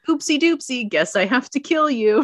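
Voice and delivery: lightly voiced king being flippant; mock-casual king. King to the fallen girl before killing her, mock-casual. Voicing the king's cheerful threat.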